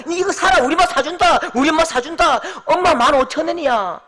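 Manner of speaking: high, loud treating friends; excited boasting. Retold or imitated. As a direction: kid promising gifts on mum's money. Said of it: "흥분된 마음이죠".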